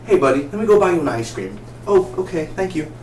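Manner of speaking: blithely friendly, as if nothing happened; sarcastically carefree skit; mock casual chat. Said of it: "they were walking like this".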